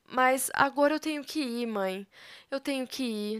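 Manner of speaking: tearful goodbye. Acted. Daughter leaving, telling her mother goodbye, softly tearful. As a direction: hold back the tears and let the voice sink. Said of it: "Bibi também chorará muito e dirá".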